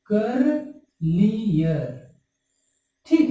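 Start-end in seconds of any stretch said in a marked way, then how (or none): 0.1-2.1 करलियर drawn out slowly, each syllable held; slow modelled word. Shown as a demonstration. Teacher to students, modelling करलियर slowly and drawn out. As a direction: spell out करलियर by sound, very slowly. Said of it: "आईईआर लगाना होगा".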